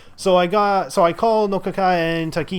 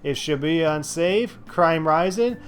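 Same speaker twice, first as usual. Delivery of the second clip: news read; 3 semitones higher than usual. Acted. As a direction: read the headlines like an anchor. Reads the in-game news aloud.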